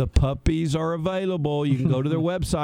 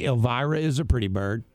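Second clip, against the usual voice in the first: parrot voice; 4 semitones lower than usual. Retold or imitated. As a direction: lower bird imitation, lightly voiced. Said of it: "She can say".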